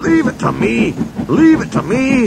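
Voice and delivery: high, rousing shout that builds. A narrator's reading. Douglas shouting to struggling James, building. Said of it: "shouted Douglas".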